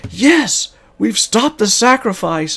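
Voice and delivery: high, loud cheer of victory; triumphant cheer. Retold or imitated. Players celebrating the fallen Painbringer, high excited cheer. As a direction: crow it like the fight is won.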